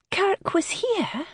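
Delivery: high, slow, Kirk was here? with the voice cracking on here; alarmed question that cracks at the end. A narrator's reading. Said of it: "Dahlia's voice cracked on the last word".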